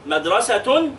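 MADRASATUN, ending in a clear "-tun"; tanween damm. Shown as a demonstration. Teacher models the pupil's task, MADRASATUN with damm ending. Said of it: "نونيها بالضم".

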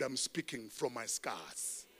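soft, slow "I'm speaking from my scars". Shown as a demonstration. Pastor quietly assuring the congregation, soft and slow. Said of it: "I am not speaking from my wound".

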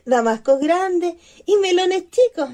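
risitas suaves alrededor de la broma; ríe bajito de tu propia broma. Acted. (risa suave de Bertina)

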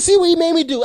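hammed-up told-you-so; mock scold. Mock-scolding the caller, hung up.

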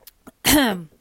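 throat clear after a drink; clearing throat after a sip. Real, not acted. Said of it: "Ik ga even een slokje nemen".

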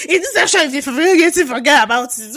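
mocking her co-host. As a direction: parrot her co-host's intro back at her, hammed-up. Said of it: "You say".

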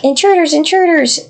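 high mock-alarmed dog voice, calling out; barking guard dog. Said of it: "be like".

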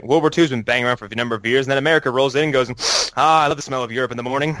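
quick, lightly imitated comedy bit; Eddie Izzard. Retelling a great comedy bit to friends, lightly mimicked. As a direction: rattle through a quoted stand-up routine. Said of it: "there's a great Eddie Izzard bit".

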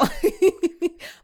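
loud high burst of laughter; real high-pitched cackle; laughing. Real, not acted. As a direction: crack up at your own words. Cracks up at own appeal.

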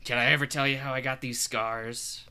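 a hint of the Joker, lightly voiced; half-hearted menacing Joker line; Joker impression. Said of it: "I was trying to do, uh, the Joker".

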